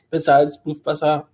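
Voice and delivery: name garbled by a swallow; choking mid sentence. Real, not acted. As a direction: choke on the words mid-name. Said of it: "ich hab mich verschluckt".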